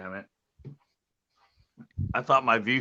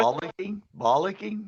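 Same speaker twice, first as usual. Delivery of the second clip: high sing-song pet talk; 10 semitones higher than usual. Real, not acted. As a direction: coo at the dog playfully. Talking to dog cheerily.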